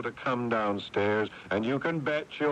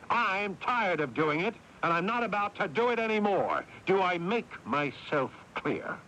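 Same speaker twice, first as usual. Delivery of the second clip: higher, hard angry tirade; furious outburst; 7 semitones higher than usual. Acted. Older brother telling his younger brother he is finished, furious. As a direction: let years of resentment explode.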